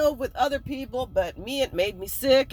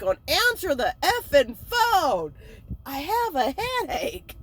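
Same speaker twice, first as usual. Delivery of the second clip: mock irritated whine, pitch lifted; exasperated complaint; 4 semitones higher than usual. Hungover woman wanting the phone answered, exasperated. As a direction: groan it like a hungover grump.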